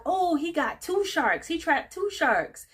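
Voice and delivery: high-pitched, drawn-out crowd excitement; slow, high-pitched cheering in retelling; mock celebrating. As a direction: imitate a thrilled crowd, slowly savoring it. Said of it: "everyone's celebrating 'cause they're like".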